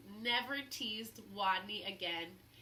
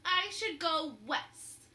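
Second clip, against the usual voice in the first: louder, higher smug retort; smug and proud; 4 semitones higher, 8 dB louder, slower than usual. A narrator's reading. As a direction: sure she's clever, so there. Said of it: "she said".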